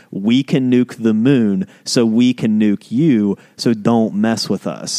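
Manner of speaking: slow, commanding alien general. Acted. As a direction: announce it like a menacing alien warlord. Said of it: "you kinda sounded like an alien general there".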